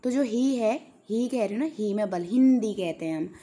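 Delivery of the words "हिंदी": हिंदी with a louder, leaned-on हिं; stress on first syllable. Shown as a demonstration. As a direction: punch the ही sound opening हिंदी. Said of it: "इसमें बल देते हैं".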